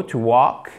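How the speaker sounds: "to walk" with the L left silent. Shown as a demonstration. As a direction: say "walk" without any L sound. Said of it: "On ne prononce pas le L". (« to walk » sans prononcer le L)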